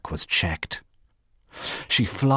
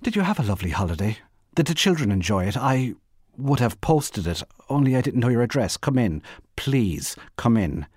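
lightly voiced, chatty, eager hostess; lively social small talk; polite flustered hostess; 2 semitones higher, faster than usual. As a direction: gush politely at an unexpected visitor. Voices a figure greeting a caller.

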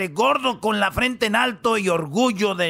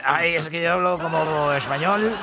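put-on Spanish accent; 5 semitones lower than usual. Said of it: "para decir".

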